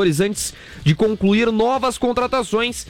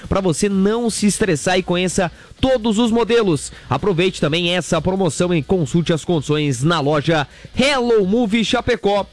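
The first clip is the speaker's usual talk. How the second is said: radio ad read. Acted. Reads Hello Move ad. (leitura de comercial de rádio, slogan bem arrastado)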